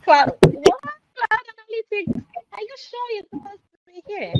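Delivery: incredulous. Real, not acted. Cohost teases wrong answers.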